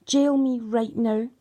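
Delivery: slow, pressing repeat of the demand; slow defiant repeat; retold demand again. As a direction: lean harder into the second one. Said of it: "I screamed at them".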